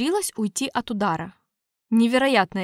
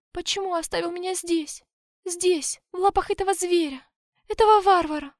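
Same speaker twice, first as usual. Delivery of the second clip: mournful babbling; 7 semitones higher than usual. A narrator's reading. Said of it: "заломила руки и пролепетала".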